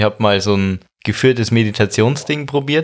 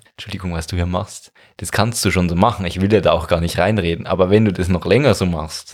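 polite trainer voice; 4 semitones lower than usual. Retold or imitated. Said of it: "wenn er sagt".

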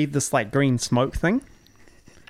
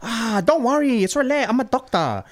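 higher mock doctor reassurance; mock Doctor Lee; 9 semitones higher, 3 dB louder than usual. Doctor Lee reassuring the patient, mock voice. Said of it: "He's like".

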